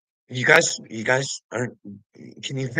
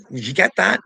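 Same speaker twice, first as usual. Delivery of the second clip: ordinary delivery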